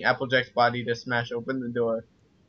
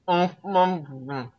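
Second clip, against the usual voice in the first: happy muffled umphs; 6 semitones higher, slower than usual. Acted. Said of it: "she said happily".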